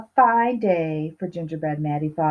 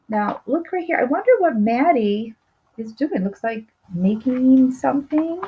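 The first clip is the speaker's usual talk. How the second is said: curious excitement; 5 semitones higher than usual. Real, not acted. Teacher pointing at picture.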